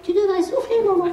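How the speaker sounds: put-on a child gently advising mum; child's voice. Child telling mum to breathe, lightly voiced.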